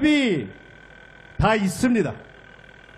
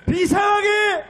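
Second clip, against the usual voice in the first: shouted punchline; 3 semitones higher than usual. Real, not acted. Rally punchline.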